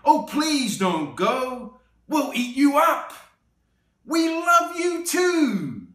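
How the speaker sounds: high, loud, slow monster plea; wild things crying after Max; pleading monsters. Acted. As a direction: beg Max not to leave. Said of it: "the wild things cried".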